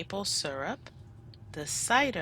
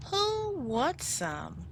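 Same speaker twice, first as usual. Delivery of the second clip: Minna's voice; 7 semitones higher, slower than usual. Acted. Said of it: "she asked".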